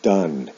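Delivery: "done" with a short uh vowel; modelled pronunciation. Shown as a demonstration. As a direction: say "done" to rhyme with "sun". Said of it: "is pronounced".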